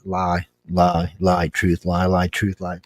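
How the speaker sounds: low, even running verdicts; matter-of-fact verdicts. Retold or imitated. Lie detector judging a man's talk, matter-of-fact verdicts. Re-enacts calling out verdicts live.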